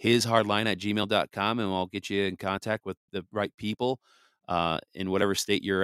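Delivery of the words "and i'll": slowly, each part of the address separate; slow spelled-out address. Real, not acted. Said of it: "email the show".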